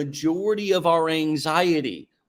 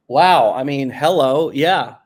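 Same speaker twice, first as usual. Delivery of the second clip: excited wow; 7 dB louder than usual. Real, not acted. Reacting to the three sixty.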